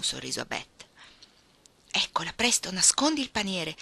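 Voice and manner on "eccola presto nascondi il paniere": allarme lieve, recitato con misura; esclamazione concitata. Acted. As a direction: avverti gli altri di fare presto. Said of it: "esclamò Joe". (esclamazione un po' concitata)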